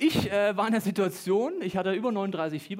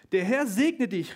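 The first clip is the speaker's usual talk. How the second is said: slow, raised-voice blessing; called out; 3 semitones higher, 6 dB louder, slower than usual. A narrator's reading. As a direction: proclaim it slowly, a little louder. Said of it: "rief Boas". (feierlich gerufen, langsam)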